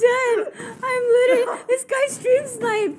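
high, loud, helpless laughter through words; real cracking-up, tearful laugh-talk; laughing to tears. Real, not acted. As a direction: squeal it out, nearly crying with laughter. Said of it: "I'm going to cry".

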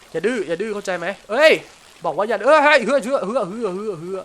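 loud scolding. Real, not acted. Gamer yelling at a struggling fish, loud scolding. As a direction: yell at the fish not to be stubborn.

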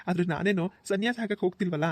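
light laugh leading into the words; amused chuckle. Acted. Groom joking with his brother-in-law about the ritual, chuckling. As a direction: chuckle as you protest playfully.

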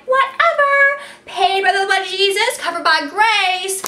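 Whatever tossed off high, then easy and sure; breezy God voice. Retold or imitated. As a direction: shrug it off like God who already paid. God shrugs off our mess-ups.

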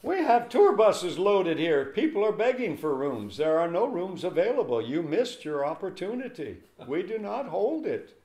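a clerk fed up with late guests; exasperated clerk. Retold or imitated. Lodging clerk turning away a late guest, exasperated and loud.

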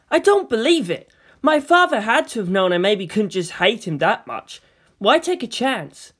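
put-on a scared boy pushing back at adults; anxious boy. Shinji refuses, voiced in dialogue.

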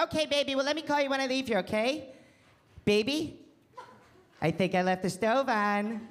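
lightly cooing phone voice; hushed sweet-talk in the corner; a hint of baby talk; girlfriend voice. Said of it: "girlfriend voice".

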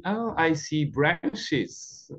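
put-on slow, soft, wide-eyed little boy voice; candid little boy. Little boy up the tree tells the uncle what he sees, slow and candid. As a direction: say it simply, slowly and softly, like a child just noticing. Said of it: "say candidly".

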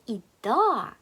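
"і да" with the final g of "i dag" dropped; silent final letter. Shown as a demonstration. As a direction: end "і да" on an open long "a". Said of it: "остання літера не вимовляється". («і да» без останньої літери)

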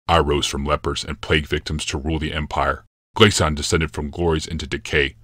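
a hint of a brooding emperor, calm and certain; grave Yalmoth. Yalmoth's lines.

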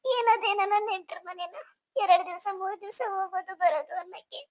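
acted weepy young bride; mild sobbing protest; tearful pleading. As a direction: plead with your sister through tears. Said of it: "ಯಾಕ್ ಅಳ್ತೀಯ?".

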